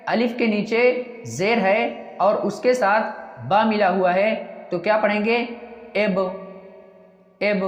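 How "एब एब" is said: syllable एब read out twice; एब said with e, not i; model reading. Shown as a demonstration. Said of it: "इसको इब नहीं पढ़ेंगे". (एब को साफ़ 'ए' की आवाज़ के साथ पढ़ना)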